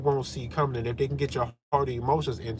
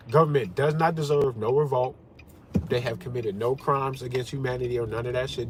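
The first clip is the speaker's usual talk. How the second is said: mock opponent voice; 3 semitones lower than usual. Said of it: "This is what it would sound like".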